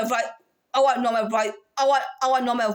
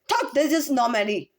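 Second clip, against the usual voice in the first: ordinary talk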